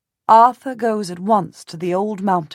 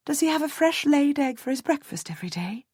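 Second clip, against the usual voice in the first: delighted; 8 semitones higher than usual. A narrator's reading. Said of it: "unable to silence my delight".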